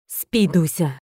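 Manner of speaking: a hint of a menacing dragon; stern command. A narrator's reading. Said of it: "грозно сказал он". (грозно, чуть ниже обычного)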